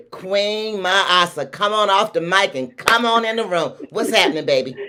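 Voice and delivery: high, excited announcer welcome; hyped host bringing on the star; big introduction. Real, not acted. Host announces guest after drum roll.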